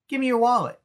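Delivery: high, sly Joker command; Joker demand. Retold or imitated. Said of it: "The Joker goes".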